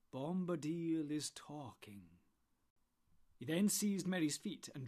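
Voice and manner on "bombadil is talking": final word. Acted. Tom's final command.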